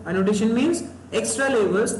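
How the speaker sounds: slow, deliberate repeat of the definition. Shown as a demonstration. Teacher repeating the definition to students, very slowly. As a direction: spell it out word by word so it sticks.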